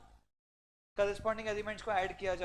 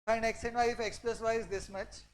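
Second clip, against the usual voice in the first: Find x and y stretched very slow and louder; drawn-out slow; 5 dB louder, much slower than usual. Shown as a demonstration. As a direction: drag each word out, teasing. (हर शब्द खींचकर बहुत धीरे)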